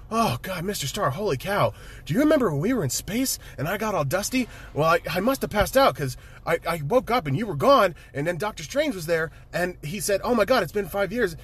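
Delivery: put-on high, excited, rambling kid voice; Peter Parker. Spider-Man telling Stark what happened, imitated excited rambling. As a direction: bubble over in a high-pitched, swooping ramble. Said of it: "he goes like".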